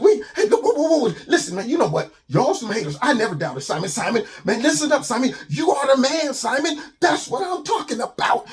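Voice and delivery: high, laughing celebration; joyful laughing praise; giddy cheering. Acted. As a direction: whoop it up with relief. Animals cheer Simon's rescue.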